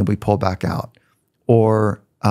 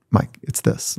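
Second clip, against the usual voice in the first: whispered hint; 5 dB quieter, slower than usual. Retold or imitated. Dad leaning over to explain.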